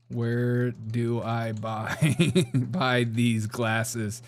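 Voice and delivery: slow, deliberate words for the search bar; dictating slowly. Shown as a demonstration. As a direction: spell it out slowly for the computer. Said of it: "Let's go to Chat G P T".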